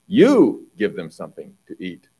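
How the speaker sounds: "You" stressed at the start of the command; emphatic you. Shown as a demonstration. Preacher showing Jesus's command to the disciples with stressed you. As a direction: lean on "You" in "You give them something to eat". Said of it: "It's emphatic".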